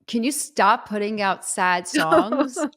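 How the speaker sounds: mock complaint. Singer retelling a fan's DM, mock exasperated. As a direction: imitate an exasperated message, dragging it out.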